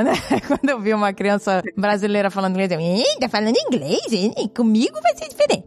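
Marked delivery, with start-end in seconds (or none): 2.8-5.6 mock judgmental. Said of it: "eu julgava".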